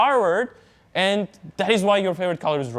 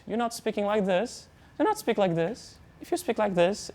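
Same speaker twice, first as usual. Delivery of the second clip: much softer, demo of a timid mumble; mumbling under your nose; 2 semitones higher, 7 dB quieter than usual. Shown as a demonstration. Teacher demonstrating to students how not to sound: soft mumble. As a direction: show the wrong, hidden voice, barely audible. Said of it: "speak under your nose".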